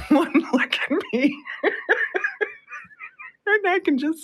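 words squeezed out between real laughs; can barely get the words out for laughing. Real, not acted. Telling radio listeners about the elevator, real laughter. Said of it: "I'm laughing".

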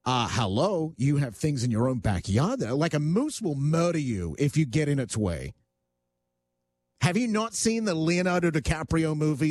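ordinary delivery

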